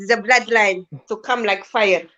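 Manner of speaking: spa voice. Pretend. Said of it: "Spa voice".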